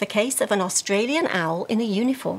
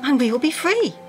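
higher-pitched plea for help read out; reading ransom note; 4 semitones higher than usual. Acted. Reads a ransom note aloud.

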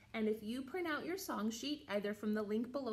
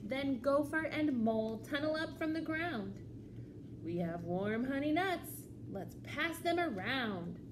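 lively, measured storytime reading; children's story read-aloud. A narrator's reading. Librarian reads a picture book to children, animated storytelling. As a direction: read to little ones, pausing before the reply.

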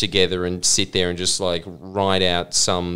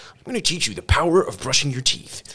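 motivational speaker; 4 semitones higher than usual. Retold or imitated. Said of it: "yourself covered by Tony Robbins".

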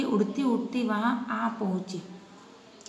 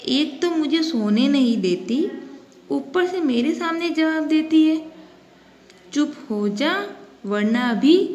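higher, louder angry lion scolding the fly; a storybook lion losing its temper; 5 semitones higher, 3 dB louder than usual. Acted. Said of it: "शेर का गुस्सा बढ़ गया". (गुस्साए शेर की ऊँची, तेज़ आवाज़)

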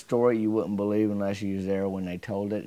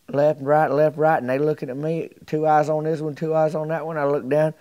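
louder, rhythmic "left, right"; animated retelling; 5 semitones higher, 6 dB louder than usual. Retold or imitated. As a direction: act out the struggle with gusto. Mort acting out the fight.

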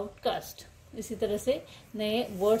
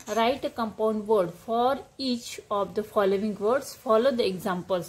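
reading the task aloud, drawn out; slow classroom dictation; slow instruction reading; 2 semitones lower, much slower than usual. Shown as a demonstration. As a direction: dictate the question slowly to pupils. Reads exercise instruction slowly.

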